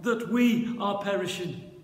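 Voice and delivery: slow, loud desperate plea; mounting shout that drops at the end; crying out. Acted. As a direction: cry out to a sleeping teacher, stretched out. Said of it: "they cry out".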